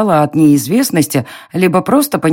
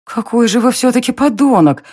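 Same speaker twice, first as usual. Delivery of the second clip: higher, spat out in rage; angry hiss; 7 semitones higher than usual. A narrator's reading. Heroine insults the smug Darren, furious hiss. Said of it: "прошипела злобно".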